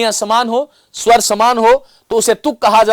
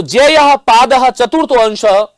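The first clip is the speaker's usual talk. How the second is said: sutra recitation; slower than usual. Shown as a demonstration. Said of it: "उन्होंने सूत्र बना दिए".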